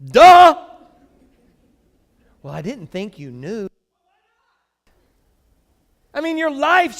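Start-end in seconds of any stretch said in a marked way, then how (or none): 0.0-0.5 loud, high sarcastic duh; mock duh. Pastor reacting to a counselee with a loud sarcastic duh. 2.4-3.7 quiet deadpan sarcasm; dry sarcasm. Retold or imitated. Pastor answering a counselee with quiet dry sarcasm.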